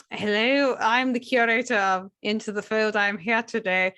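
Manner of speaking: lightly voiced stuffy curator; monocled curator. Curator telling listeners how to contact the podcast, lightly put on. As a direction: put on a slight curator persona. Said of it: "Yes, I am wearing a monocle".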